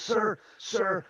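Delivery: high, soft, slow enthusiasm; enthusiastic kid. Retold or imitated. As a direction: imitate a keen child, drawing out the last words proudly. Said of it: "with so much enthusiasm".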